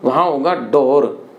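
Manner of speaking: डोर with plain d, slow and low; Haryanvi डोर. Shown as a demonstration. Teacher contrasting ढोर with the Haryana form डोर. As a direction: say डोर without aspiration, slowly. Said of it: "हम उच्चारण करते हैं ढोर".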